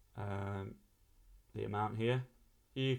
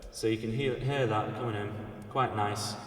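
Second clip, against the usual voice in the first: louder voice in a big open room; big reverb; 4 dB louder than usual. Shown as a demonstration. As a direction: speak into a wide open hall. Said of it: "a big open sound".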